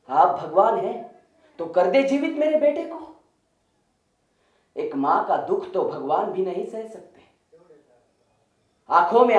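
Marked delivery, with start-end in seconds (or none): 0.1-3.2 rising, high-pitched plea; pleading mother. Acted. Mother begs Buddha to revive her son, pleading. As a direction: beg upward as a grieving mother. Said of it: "विलाप करती मां ने पूछा".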